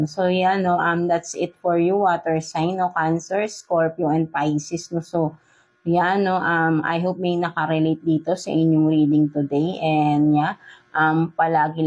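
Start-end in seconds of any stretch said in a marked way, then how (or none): none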